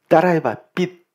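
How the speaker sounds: lightly imitated corrective wife; wife correcting pronunciation. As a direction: model the word 빚 as a mock teacher. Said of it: "제 아내가 제 발음을 교정해줘요".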